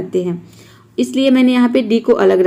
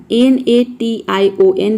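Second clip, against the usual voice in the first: spelled out slowly; slower than usual. Shown as a demonstration. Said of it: "यहाँ पे देखिए नेशन".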